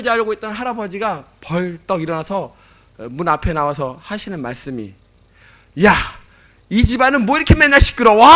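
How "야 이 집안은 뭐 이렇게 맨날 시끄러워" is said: higher, louder imitated bellow; grandfather's mock shout. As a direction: yell from the doorway at the noisy house. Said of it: "이렇게 또 소리를 지는 것입니다".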